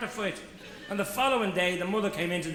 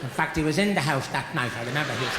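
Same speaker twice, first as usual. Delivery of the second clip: indignant mother; 5 semitones lower than usual. Acted. Mother defends her son.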